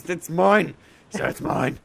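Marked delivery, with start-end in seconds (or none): 0.0-0.8 whiny and pitched up; possessive whining. Acted. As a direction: whine over the loot. Claiming loot, repeated.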